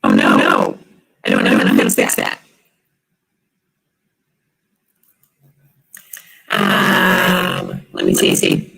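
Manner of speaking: glitchy robotic audio; metallic voice. Real, not acted. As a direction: voice garbled like a broken robot. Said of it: "my voice is robotic".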